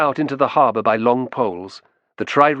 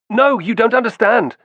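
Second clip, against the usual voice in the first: higher, louder pleading cry; desperate cry; 11 semitones higher, 5 dB louder than usual. A narrator's reading. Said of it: "cried Romulus".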